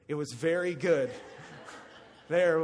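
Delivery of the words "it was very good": a firmer It was very good, louder; firm final take of "It was very good."; emphatic praise. Shown as a demonstration. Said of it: "'cause he's sitting right here".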